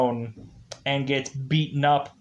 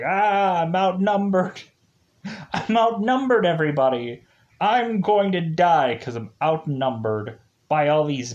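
hammed-up panicked hero, higher; whiny mock despair, pitched up; mock Kruger; 3 semitones higher than usual. Recapping Kruger panicking among minions, hammed-up whine.

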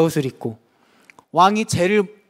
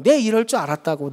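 accusing retort. Retold or imitated. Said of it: "공격하면서".

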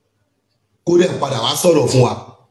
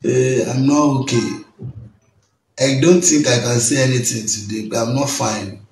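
mock mournful Bella; 4 semitones lower, 6 dB quieter than usual. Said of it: "Bó ṣe ṣe báyìí nìyẹn pé".

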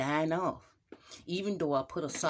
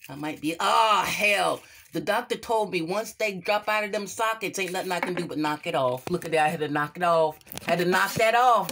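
panicked shout; 6 dB louder than usual. Acted. Toe falling off, panicking.

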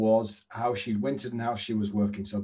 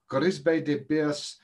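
slower mock French repeat of Grisbe de Bers; dodgy French accent; 3 semitones higher, much slower than usual. Tipster repeating the horse name, dodgy French accent. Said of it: "not a trace of a dodgy French".

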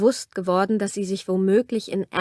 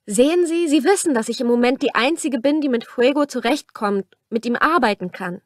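lightly raised voice, earnest and urgent; a hint of a desperate young woman; pleading young woman; 3 semitones higher, 4 dB louder than usual. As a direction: plead your case to him. Camilla argues for her horses.

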